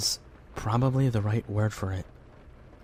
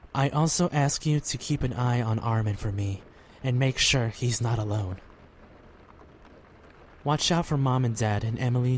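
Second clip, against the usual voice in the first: prayer. Acted. Boy prays for friends before sleeping, earnest prayer. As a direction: pray sincerely, unhurried.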